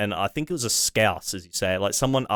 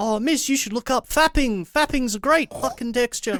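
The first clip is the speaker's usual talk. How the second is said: put-on very high-pitched New Zealand accent. Retelling a classroom story, imitating George's New Zealand accent. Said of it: "in his New Zealand accent".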